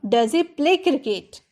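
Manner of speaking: slow, clear teacher dictation; careful slow English; slow model sentence. Shown as a demonstration. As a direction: say it slowly so students copy. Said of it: "इसीलिए उसके साथ does use हुआ".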